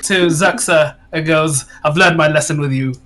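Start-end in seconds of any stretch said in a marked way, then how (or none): 1.8-2.9 mildly grudging, quick concession; a quick, half-amused grumble of defeat; begrudging. Acted. Akeem handing Zaxa two copper pieces, mildly begrudging. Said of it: "begrudgingly gives".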